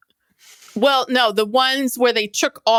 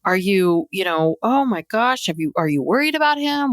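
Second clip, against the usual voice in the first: fussy concern impression. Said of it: "And she's like".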